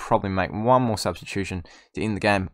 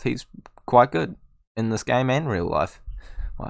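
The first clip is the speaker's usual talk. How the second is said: usual speaking voice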